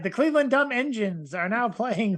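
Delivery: put-on old-time radio sports announcer; 1940s baseball announcer. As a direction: call it like vintage radio play-by-play. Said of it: "like a nineteen forties baseball announcer".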